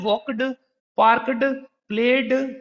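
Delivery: वॉक्ड, पार्क्ड, प्लेड with a heavy d on each ending; wrong full ed. Shown as a demonstration. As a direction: stress a clear d at the end of वॉक्ड, पार्क्ड, प्लेड. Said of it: "तो ये गलत pronunciation है".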